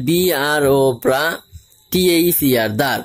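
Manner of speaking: letter by letter into "ব্রা", pause, then "দার"; spelling by syllable. Shown as a demonstration. Teacher helping new English learners, spelling out ব্রা and দার separately. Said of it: "এইভাবে যদি আমরা উচ্চারণ করি".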